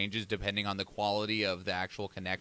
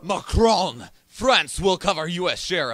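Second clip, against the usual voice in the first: mock French accent; 6 semitones higher, 9 dB louder, slower than usual. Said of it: "you fucking killed that accent, like, halfway through that sentence".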